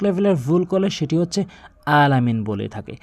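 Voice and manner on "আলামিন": "আলামিন" opening on a plain a, no throat squeeze; hamza for ain. Shown as a demonstration. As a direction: say "আলামিন" with a simple glottal start instead of ain. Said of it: "আইনের জায়গাতে". (আইনের জায়গায় হামজা দিয়ে "আলামিন")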